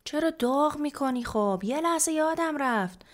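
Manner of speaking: put-on high-pitched teenage whine back at mother; defensive protest. A narrator's reading. Daughter protests mother's scolding.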